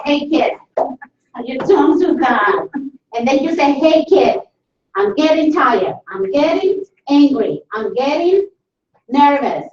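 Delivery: acted warning. Parent to a child who won't listen, mild warning. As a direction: warn a child in a mildly exasperated act. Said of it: "entonces de pronto uno advierte".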